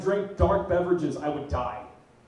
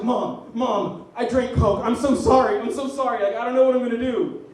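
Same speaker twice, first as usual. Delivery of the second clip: frantic, louder plea to mom; panicked apology; 4 dB louder than usual. Retold or imitated. Teen confessing to mom he drank Coke, panicked and loud. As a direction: blurt out a scared confession. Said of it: "and I was like".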